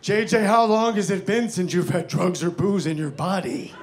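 mock yell to someone across the road; yelling across street. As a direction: call it out, without a full shout. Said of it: "He starts yelling from across the street".

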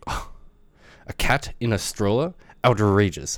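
disgusted German tourist impression; German accent. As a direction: act outraged in a put-on German accent. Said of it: "that's my best German accent".

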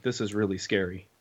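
low, quiet voicing of a nervous boy; small and soft, imitating a scared camper; understated retold fear. Retelling nervous boy before zip line.

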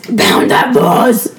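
harsh, unvoiced metal growl; guttural metal-vocalist rasp; heavy metal voice. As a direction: growl it slowly like a metal singer. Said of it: "had to do the heavy metal voice".

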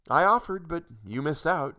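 sad. Acted. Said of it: "she said sadly".

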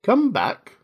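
high-pitched drawn call; calling after her. A narrator's reading. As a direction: call someone back, without shouting. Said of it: "the caterpillar called after her".

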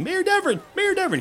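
put-on the boy still shouting for the mayor; still yelling. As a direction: keep bellowing the name without stopping. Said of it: "he's still yelling".

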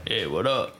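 low voice. Retold or imitated. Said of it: "now your voice like".

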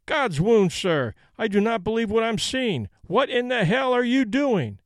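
general's escalating fury; furious outburst. A narrator's reading. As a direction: explode at him. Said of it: "in a rage".

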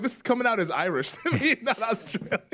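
amused, breaking into laughs mid-sentence; laughing. Real, not acted. Teasing host about his accent.

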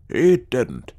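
loud, emphatic denial; emphatic contradiction. Acted. Wish disputing the ghost tale, loudly emphatic. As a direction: cut in to deny it forcefully.

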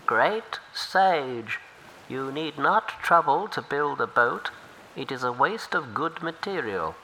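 humble river turtle offering help. Acted.

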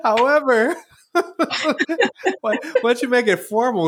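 mock formal ask. Mocking a formal mentor request.

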